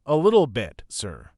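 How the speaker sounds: sleepy yawn through the words; yawning, pretending to be sleepy. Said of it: "I yawned real big".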